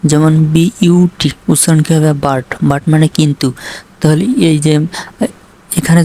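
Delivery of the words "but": "বাট", open a between b and t; u sounded as "a". Shown as a demonstration. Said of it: "আ sound হবে".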